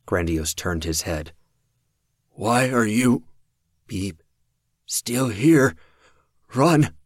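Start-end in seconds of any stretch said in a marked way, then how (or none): 2.3-6.9 rising loud yell; desperate shout. Acted. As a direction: yell at them to run. Dying man yells at them.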